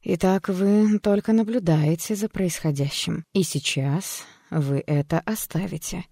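slow, soothing hypnotist's voice; calm therapist voice. Acted. Doctor calmly guiding the patient out of hypnosis, soothing. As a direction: lull the patient gently out of the memory.

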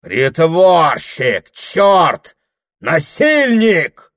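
всё выше и громче, до визга; швыряй ругательства в лицо; яростный крик. Acted. Прохор в бешенстве кричит. (Прохор в бешенстве кричит на дьякона)

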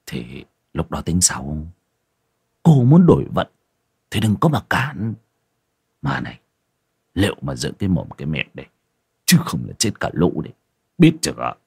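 low, hushed warning; lightly voiced stern husband.

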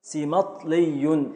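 ركنيبل spoken very slowly, syllable by syllable; slow scansion. Shown as a demonstration. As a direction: drag out ركنيبل to show the beats. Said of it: "اتفضل". (تقطيع بطيء جدا)

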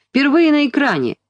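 high showman announcement; booming circus ringmaster. A narrator's reading. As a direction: herald the act to the crowd. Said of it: "закричал он".

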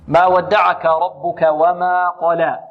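slow, elongated tajwid reading; measured Quran recitation. Shown as a demonstration. Teacher modelling the verse for pupils, slow tajwid. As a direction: recite وما قلى with held long vowels.

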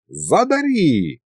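high, drawn-out creaky demand; grating begging of an old sorcerer; creaky rasp. A narrator's reading. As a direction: creak it out slowly like an old spook. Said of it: "раздался скрежет над ухом".

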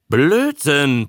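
high-pitched outraged dismissal; indignant Fred. A narrator's reading. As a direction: throw it out as an angry protest. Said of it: "protestierte Fred aufgebracht".

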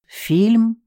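echoing the word back to Galya; surprised echo. A narrator's reading. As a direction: ask Фильм back in disbelief. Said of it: "переспросила я".

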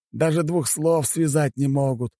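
slow, high-pitched grumble; exasperated complaint. Acted. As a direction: drag it out, fed up. Exasperated chairman complains about staff. (раздражённо, медленно, высоким голосом)

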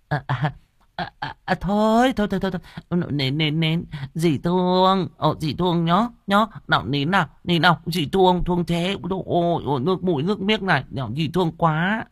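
high, sing-song, syrupy false comfort; fake soothing stepmother. Stepmother faking tenderness when the husband comes home, high sing-song cooing. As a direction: coo over the child, pretending to love him. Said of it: "giả vờ dỗ dành".

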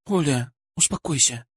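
мягко, негромко успокоить; тихое, бережное утешение; успокаивающе. Acted. Даша утешает рыдающую женщину. (успокаивающе, вполголоса)

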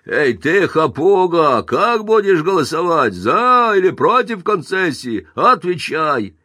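high, loud demanding yell at a crooked alderman; angry shout. Acted. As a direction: bark the question at him, slow on Отвечай. Plumber yells at Pinsky.

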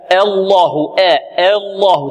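الله with the long a bent toward e, imala; wrong Allah. Retold or imitated. Teacher mimics students' faulty الله, slanted vowel. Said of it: "كما ينطق بعض الطلاب".

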